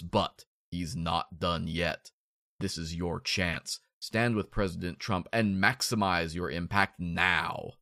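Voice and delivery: slowing to a rally-speech read; campaign voice. Acted. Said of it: "let me put on my campaign voice".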